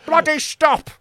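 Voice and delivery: high panicked yelling; shouting for help. Retold or imitated. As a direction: yell up from under the car. Shouting from under the car.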